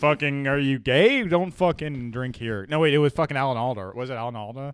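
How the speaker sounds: mock Alan Alda barkeep; gruff bartender. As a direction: play a hostile bar owner spitting contempt. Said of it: "it's Horace and Pete's".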